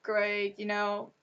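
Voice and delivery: hushed, comforting imagined friend; soft reassuring friend. Pretend. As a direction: softly reassure her it will be fine. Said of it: "who can say".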